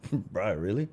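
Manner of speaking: relaxed shrug of a reply, laughing around it; now he just lets the spilled drink go; calm, unbothered. Retold or imitated. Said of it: "I'd be like".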